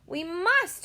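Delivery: shrill-free high insistence; cried. A narrator's reading. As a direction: insist loudly. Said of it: "Sophie cried".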